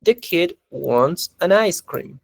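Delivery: slow, careful teacher read; slow clear example sentence; slow model sentence. Shown as a demonstration. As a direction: read it out slowly for the class. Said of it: "una oración que dice".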